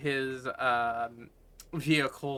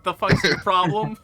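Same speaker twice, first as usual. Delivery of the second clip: loud, pitched-up confrontational question; acted challenge; 4 semitones higher, 9 dB louder than usual. Game master voices a character's shoulder gesture, confrontational. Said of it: "the what shoulder fucking expression".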